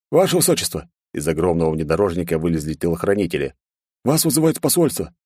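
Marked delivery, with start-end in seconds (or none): 0.1-0.9 calling out. Acted. Bodyguard calling out. 4.0-5.1 calling out. Acted. Bodyguard calling.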